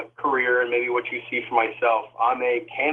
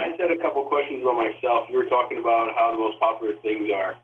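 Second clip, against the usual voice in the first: echoing tunnel. Real, not acted. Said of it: "you sound like you're in a tunnel".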